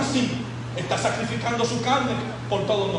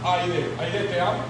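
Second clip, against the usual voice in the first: tender to his wife; 5 semitones lower, slower than usual. Retold or imitated. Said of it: "como yo le digo".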